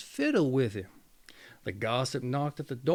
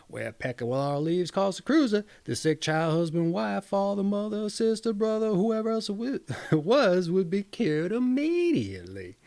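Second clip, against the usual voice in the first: excited peasant; 2 semitones higher than usual. Acted. Peasant calling his wife from the door, excited. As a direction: gush the sermon back to her in a rush of joy.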